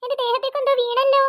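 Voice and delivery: put-on scared girl crying out to her mother; panicked girl. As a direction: yelp in alarm as something lands on you.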